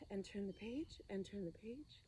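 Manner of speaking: playful whispered pages. Acted. Teacher playing the book game with kids, whispering. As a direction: hush it like a secret.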